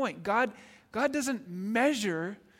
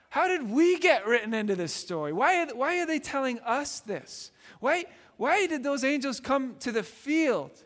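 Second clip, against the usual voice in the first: higher, wondering questions of humble shepherds; bewildered wonder; 5 semitones higher, 3 dB louder than usual. Retold or imitated. Shepherds asking each other why angels came to them, amazed.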